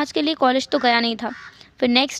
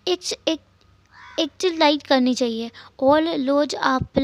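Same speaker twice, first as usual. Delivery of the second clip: put-on little boy's voice; slower than usual. Narrator voices little boy Jingi. (ऊँची, भोली बच्चे की आवाज़)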